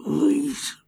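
high, pleading character voice; tiny high-pitched plea; drinker ordering rounds. Acted. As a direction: squeeze out a high little plea. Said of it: "I point at my gold and I go".

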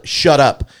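imitated exasperated hushing. Wife hushing husband at the game, exasperated. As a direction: punch it out as a fed-up order. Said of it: "you know, she's pun".

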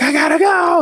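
high, panicky imitation of wife; retold panic. Wife on the call wanting out, panicky high voice. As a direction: imitate someone desperate to bolt.

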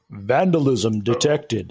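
slow, flat robotic announcement; slow stone monotone. Acted. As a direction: deliver it like a security system. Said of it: "a deep voice saying".

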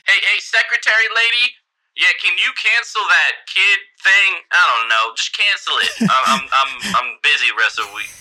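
loud, high yell across a building; yelling down the hall. Acted. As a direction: shout to the secretary far away. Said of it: "You hear him yell out down the hall".

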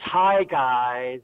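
lightly imitated American accent greeting; put-on American accent. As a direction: mimic an Irish person gone American. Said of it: "we all became Americans there".

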